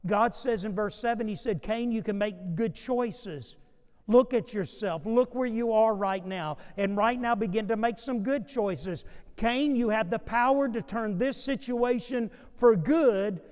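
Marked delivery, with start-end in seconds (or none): 1.6-13.4 God urging Cain. Acted. God urges angry Cain toward good choices. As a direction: plead with him to turn it around.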